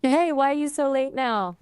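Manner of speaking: attempted Singaporean accent. Shown as a demonstration. Assistant copying the streamer's line, mild Singaporean accent. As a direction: copy a Singaporean accent, only lightly. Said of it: "do a Singaporean accent".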